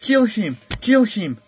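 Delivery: high, loud chant with falling ends; mob yelling. A narrator's reading. Mob demands the young warrior's death, yelling. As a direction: yell it like an angry mob. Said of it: "the mob yelled".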